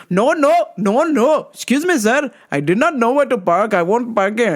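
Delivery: pleading apology to the man; dad pleading. Retold or imitated. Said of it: "And he goes".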